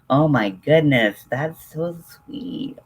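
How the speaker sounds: high, drawn-out "so sweet"; touched gush. Real, not acted. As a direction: melt at the kindness. Touched by viewer's offer.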